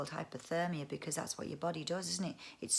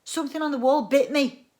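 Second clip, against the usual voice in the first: higher, louder wailing complaint; 7 semitones higher, 12 dB louder than usual. Acted. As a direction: wail it, hurt and upset. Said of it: "he wailed".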